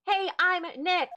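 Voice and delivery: high, forceful call held loud throughout; insistent high-pitched shouted hello. Acted. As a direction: push the greeting out to trigger the mic. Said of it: "Maybe I'm not saying it loud enough".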